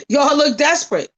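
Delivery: laughing, mocking repeat. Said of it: "I said".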